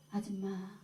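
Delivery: halting, mildly tearful imitation with long pauses; retold tearful confession. Shorn woman confessing to the churchworker, imitated tearful shame. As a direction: draw out the shame, lightly acting her tears. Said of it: "막 울면서 그래요".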